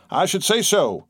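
high, aggrieved agreement; wounded indignation. A narrator's reading. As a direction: agree as one deeply wronged. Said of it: "deeply wounded at an injustice".

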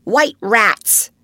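high, loud burst of inspiration; inspired cry. Acted. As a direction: blurt it out like a thrilled boy. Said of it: "cried Nibs, inspired".

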